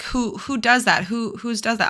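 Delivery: snide, mocking bully; mock the bully's sneering tone. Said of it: "saying, you know, like".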